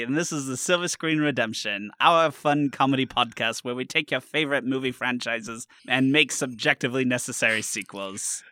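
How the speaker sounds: booming thirties radio host; old-timey radio announcer. Acted. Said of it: "This is my previously on The Legend of Korra voice".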